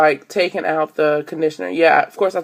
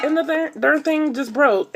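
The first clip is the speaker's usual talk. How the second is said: retold exasperated complaint; 10 semitones higher than usual. Complaining to store clerk.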